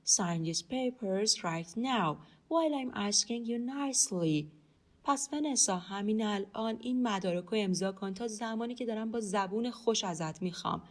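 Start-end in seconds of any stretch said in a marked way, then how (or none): 0.0-4.5 slow, measured English for learners; slow model reading. Shown as a demonstration. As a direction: say it slowly, word by word. Teacher models the English slowly.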